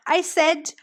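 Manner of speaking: slow, loud, high near-shout from grandma; slow, loud half-shout of a grandma; almost shouting. A narrator's reading. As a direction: nonna repeating herself very slowly and loudly so the foreigner understands. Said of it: "now much louder, almost shouting".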